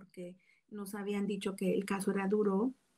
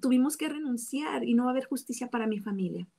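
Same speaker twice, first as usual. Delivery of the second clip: higher-pitched, mildly retold anguished protest; angry at God; 3 semitones higher than usual. A woman retelling her protest to God, raised and anguished. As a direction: replay the anger at God with a lifted voice, not a full shout. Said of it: "Y yo gritaba y lloraba y decía, enojada con Dios".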